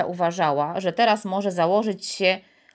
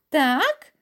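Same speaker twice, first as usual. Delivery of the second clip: high, needled retort; irritated; 8 semitones higher, 3 dB louder than usual. A narrator's reading. Piotr nettled by Karolcia's prodding, irritated. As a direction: snap back, annoyed. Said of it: "zdenerwował się teraz z kolei Piotr".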